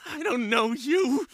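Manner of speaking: tense denial, held back; agitated but contained; restrained denial. Acted. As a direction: push them away without raising your voice. Same line, held back first.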